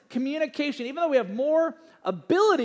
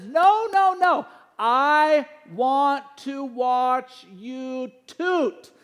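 imitating giggling daughter; 3 semitones higher, 5 dB louder, much slower than usual. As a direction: stretch it out like a kid laughing too hard. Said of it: "She says".

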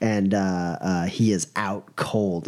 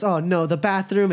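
higher-pitched mock lament; acted dismay; 8 semitones higher than usual. Boss heads for his bathroom, mock dismayed. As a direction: replay the worry in a raised voice.

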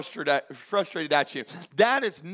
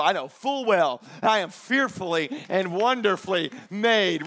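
affirming declaration; 2 semitones higher, 4 dB louder than usual. Shown as a demonstration. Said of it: "look at yourself in the mirror and go".

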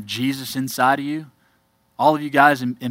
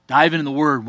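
louder, punching the word "Dive"; emphatic repeat; 2 semitones higher, 5 dB louder than usual. Real, not acted. Pastor urging the congregation to the Bible, emphatic and louder. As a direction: hammer home "Dive into the Word". Preacher repeats his charge.

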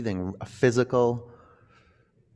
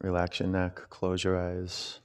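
right in your ear; 7 dB quieter than usual. Acted. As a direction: murmur it close to the ear. Guiding relaxation close and intimate.

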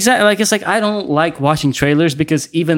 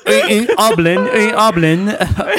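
mock hero voice; 5 semitones higher than usual. Mocking Spider-Man trailer voice.

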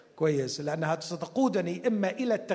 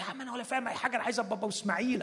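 comic Abraham; 5 semitones higher, 3 dB quieter, much faster than usual. Acted. Abraham voiced as ordinary guy.

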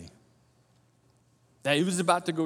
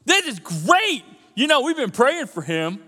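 mock joy; 5 semitones higher, 3 dB louder, slower than usual. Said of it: "wasn't like".

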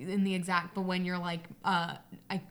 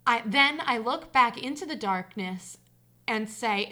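story narration; 4 dB louder than usual. A narrator's reading. Reader telling listeners of a childhood hide-and-seek scare, story narration. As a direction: read the tale aloud, measured and deliberate. Reads a personal story aloud.

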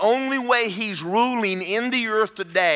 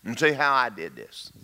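low, soft, sly tempter; devil in the garden; 7 semitones lower, 4 dB quieter than usual. Acted. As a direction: sidle in quietly with a low persuasive voice. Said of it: "he's gonna do the same thing he did in the garden".

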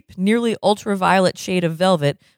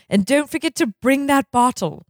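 sultry receptionist voice; 8 semitones higher than usual. Acted. Xandra calls to doctor.

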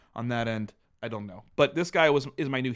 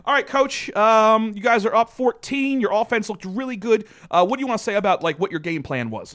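louder, higher mock sideline reporter; halftime interviewer; 5 semitones higher, 6 dB louder than usual. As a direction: pretend to interview a coach at halftime. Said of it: "let's conduct a, a normal halftime interview".

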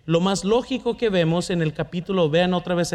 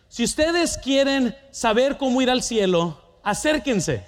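retold shout; 5 semitones higher than usual. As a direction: call the kids over like a street preacher. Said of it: "comencé a gritar".

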